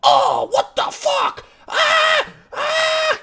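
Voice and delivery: shrieking, high goblin yelp; a caught goblin screeching in shock; startled goblin. Acted. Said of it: "he looks over at you and just goes".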